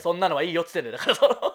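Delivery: rapid fed-up repeat of the line; fast exasperated repeat. Real, not acted. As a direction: rattle off そんなのはいいよっつってんだよ very fast. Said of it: "そんなのはいいよっつってんだから".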